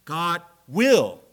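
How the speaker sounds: "God will" rung out loud; emphatic proclamation. Real, not acted. Preacher answering human failure, loud and sure. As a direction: land the climax with force. Climactic refrain.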